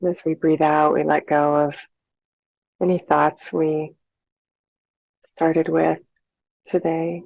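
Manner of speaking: calm, unhurried meditation guide with long pauses; measured, soothing breathing instruction; guided meditation. Real, not acted. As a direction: lead listeners gently through their breathing, leaving space between phrases.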